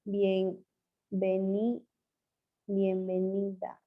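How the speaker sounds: reading bienvenida off the screen very slowly; teacher reading a student's answer, slowly; slow reading aloud. Shown as a demonstration. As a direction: sound out each syllable as you read it. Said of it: "¿Qué dice?".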